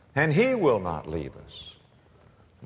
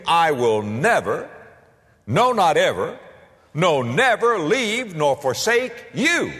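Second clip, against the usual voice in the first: fervent pulpit declaration; preached promise; 5 semitones higher than usual. Acted. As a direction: lean on every never and forsake. Preacher proclaiming God's promise.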